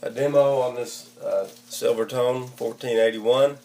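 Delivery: hoarse voice from a bad cold. Real, not acted. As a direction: speak through a croaky head cold. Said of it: "Excuse my voice, I've got a bad cold".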